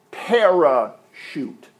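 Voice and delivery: parachute drawn out slowly, syllable by syllable; slow demo word. Shown as a demonstration. Grammar teacher to congregation, slow spelled-out parachute. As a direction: lay out each part of parachute for the class. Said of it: "Para is a preposition".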